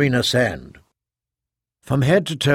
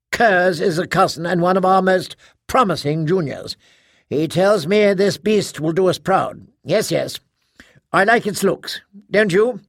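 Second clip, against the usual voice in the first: eager host; 5 semitones higher than usual. Acted. Harold Norn chatting eagerly to Tough.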